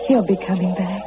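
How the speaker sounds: low, subdued self-reassurance; subdued hope. Acted. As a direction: say it low, as if to yourself. Waiting girl reassures herself.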